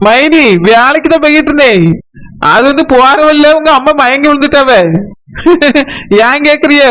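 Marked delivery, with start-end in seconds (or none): 5.4-6.2 laughing. Acted. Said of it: "கொண்டாட்டமா சொல்லிட்டு இருக்கா".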